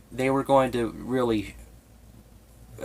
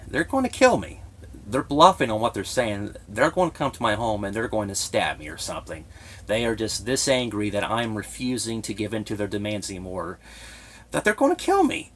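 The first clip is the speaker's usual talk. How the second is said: recalling panicked thoughts, pitch leaping up on kill; afraid. Retold or imitated. Man recalling his fear they'd kill him, panicky. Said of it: "I was legitimately afraid".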